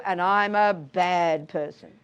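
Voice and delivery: low, slow hammed-up self-condemnation; mock self-blame. Teacher voicing our guilty thoughts, slow mock self-blame. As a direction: drag it out as a mock guilty verdict. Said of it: "and then we go".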